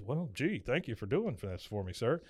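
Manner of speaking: soft, subdued polite thanks; meek Hank. Retold or imitated. Hank thanking his boss Buck, soft and meek. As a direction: thank the boss quietly, deferentially.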